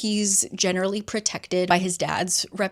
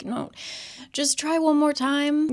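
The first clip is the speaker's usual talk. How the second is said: higher, pressing encouragement; urgent plea; 7 semitones higher than usual. Retold or imitated. Julian urging Emma to retry the rune, higher and pressing. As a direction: push her to try again.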